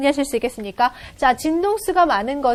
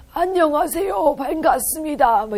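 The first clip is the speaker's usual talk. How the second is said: put-on elderly woman's old grandmother voice. Lesson on changing waveforms, greeting in an imitated grandmother voice. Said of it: "할머니 목소리".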